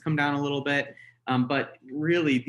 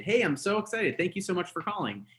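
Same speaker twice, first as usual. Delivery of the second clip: higher, eager phone greeting; excited; 4 semitones higher than usual. Shown as a demonstration. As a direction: gush with happy energy. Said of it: "Be excited".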